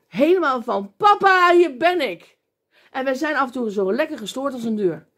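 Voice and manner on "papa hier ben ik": high, loud, eager call to a father; childlike call to Papa. Pretend. Believer calling to God like a child, high and eager. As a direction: call out like a happy child running to dad.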